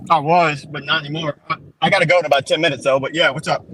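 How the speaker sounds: talking while chewing gum. Real, not acted. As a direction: chew gum as you speak. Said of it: "I'm sorry, I'm chewing gum".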